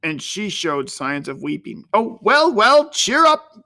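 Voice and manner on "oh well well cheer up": much higher, louder, slow hearty comfort; jolly cheer. A narrator's reading. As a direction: cheer the weeping girl up heartily. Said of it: "cried Uncle Jack".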